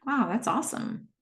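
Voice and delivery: softly and kindly; gentle. Acted. Cam gently encouraging Haley, soft and kind. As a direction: say it gently, pleased for her. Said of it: "very gently".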